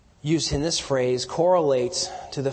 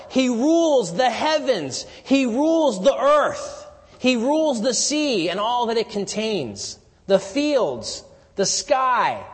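preaching at full force; 7 semitones higher, 4 dB louder than usual. Acted. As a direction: build it like a pulpit climax. Preaching crescendo on Christ's lordship.

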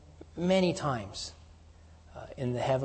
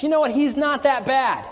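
higher, louder, breezy shrug of a line; mock casual dismissal; 10 semitones higher, 7 dB louder than usual. An imagined Lord brushing off the sin, mock casual. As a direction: toss it off like excusing a friend. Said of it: "the Lord doesn't say".

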